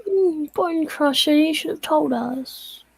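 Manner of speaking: slow scolding, half in character; stern investigator. Acted. Player's detective slowly scolding the landlord, lightly voiced.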